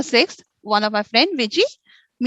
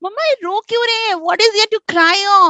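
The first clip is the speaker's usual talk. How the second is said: mocking laughing question; 7 semitones higher, much faster than usual. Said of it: "gave a hearty laugh".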